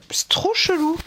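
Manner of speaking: a puzzled private whisper; chuchoté, perplexe; whispered aside. Real, not acted. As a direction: whisper "C'est trop chelou" to yourself, puzzled. Puzzled aside over baggy top.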